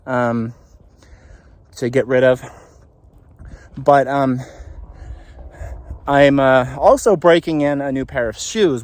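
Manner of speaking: a little winded from walking; out of breath. Real, not acted. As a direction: talk between breaths while walking. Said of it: "pardon me for being out of breath".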